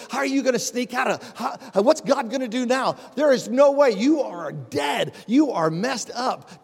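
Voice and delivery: mock the servant like a doubting crowd; taunting onlookers. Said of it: "Can't you imagine people walking by and saying".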